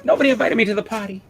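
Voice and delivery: high indignant character voice, snubbed at the party; left-out comic character. Retold or imitated. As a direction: squeal it like an offended cartoon figure.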